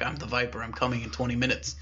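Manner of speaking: soft, lightly raspy threat; hint at a raspy caller, voice held down. Acted. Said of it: "it was a very raspy voice".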